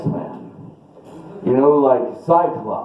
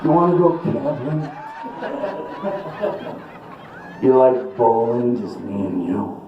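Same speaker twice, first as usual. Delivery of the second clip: intense stare voice; 4 dB quieter than usual. Pretend. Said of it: "It'd be more like this".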